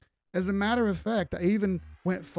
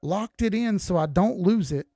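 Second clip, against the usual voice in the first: indignant, pitched up with punched words; 3 semitones higher than usual. Real, not acted. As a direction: protest in exasperated disbelief. Indignant at being criticised for profits.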